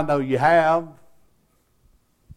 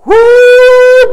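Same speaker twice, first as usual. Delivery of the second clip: very high, loud held "woo"; imitated answering whoop; 12 dB louder than usual. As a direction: whoop back across the church. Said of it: "and they go".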